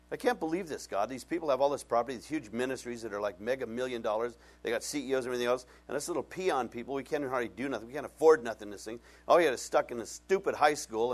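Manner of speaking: whiny gripe about the rich ministries; griping complaint. Retold or imitated. Pastor mimics his own griping prayer to God. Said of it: "I'm just complaining and grumbling".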